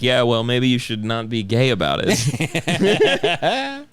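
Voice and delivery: slow, teasing dismissive voice; mocking comic friends. Comics mocking his sighting, slow teasing voice. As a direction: brush him off sarcastically. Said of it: "And they're like".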